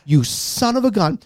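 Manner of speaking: fuming over the seven dollar wine; reliving the anger. Retold or imitated. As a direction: let the old outrage boil back up. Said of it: "Now I'm pissed".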